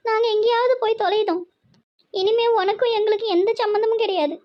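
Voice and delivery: high, wounded renunciation; weeping mother's bitter ultimatum; tearful disowning. Acted. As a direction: cut him off, close to tears. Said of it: "ஏன்னு அம்மா இப்படி அழுவ வைக்கிற?".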